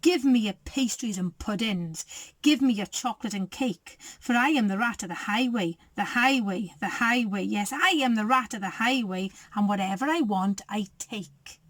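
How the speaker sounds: villain's cry. Acted. The highway rat stops the rabbit, lightly menacing. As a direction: growl it out like the baddie. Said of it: "who cried out".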